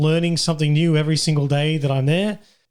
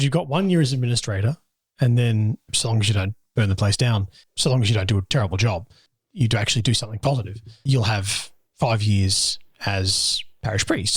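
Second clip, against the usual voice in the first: lower, lightly voiced bishop; a hint of a firm bishop; 5 semitones lower than usual. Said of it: "he said".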